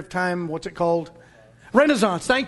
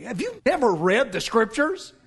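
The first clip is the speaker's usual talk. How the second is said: NEVER leaned on, rising incredulously to the end; pointed question. Shown as a demonstration. Quoting Jesus to make a point of inflection, pointed question. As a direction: stress "you never", end on a questioning rise. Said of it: "inflection means a lot".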